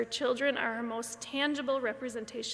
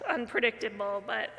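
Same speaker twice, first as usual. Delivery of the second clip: laughing through tears. Real, not acted. Tearful laugh at emotional moment.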